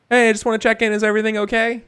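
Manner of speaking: high, loud, courteous check-in; polite innkeeper. Acted. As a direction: call in politely as the innkeeper at the door. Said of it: "he's just kinda politely comes up".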